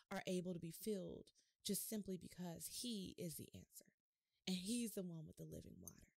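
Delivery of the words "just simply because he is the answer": hushed whisper. Real, not acted. Preacher whispers the answer to the church. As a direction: drop to a breathy whisper for the key line.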